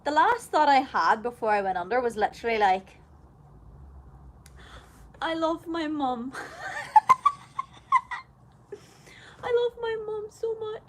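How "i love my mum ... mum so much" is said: mock-sappy declaration of love, pitched up; sentimental. Patient's last thought before anaesthesia, sentimental and high.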